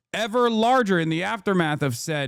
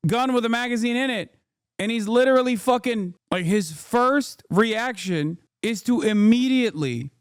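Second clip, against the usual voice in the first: higher-pitched, exasperated rant; real indignation; 6 semitones higher than usual. Real, not acted. Streamer berating an agent who pointed a gun at onlookers, indignant. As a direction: argue it in raised-pitch outrage.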